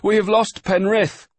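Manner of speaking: loud, high alarmed cry; urgent shouted report. A narrator's reading. Boy telling the master a sailor is lost, shouting. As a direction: shout the bad news into the wind.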